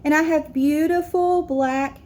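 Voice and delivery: put-on a child reading her essay on stage, steady; reading an essay aloud. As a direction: read it carefully to the assembly.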